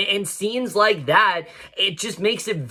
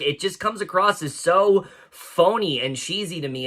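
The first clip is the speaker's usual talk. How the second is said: ordinary talk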